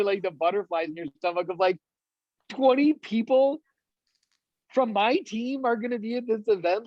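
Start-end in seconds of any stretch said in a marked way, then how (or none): 2.5-6.9 high, incredulous delight; giddy disbelief. Acted. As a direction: marvel at it in a raised, giddy voice. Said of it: "giddy, like, almost like you wanna giggle".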